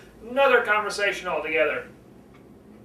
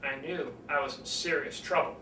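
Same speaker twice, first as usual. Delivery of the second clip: sudden low, quiet drop after the build; dropped voice; 6 semitones lower, 10 dB quieter than usual. Shown as a demonstration. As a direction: lower and much softer. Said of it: "drop your voice to a lower pitch and quieter".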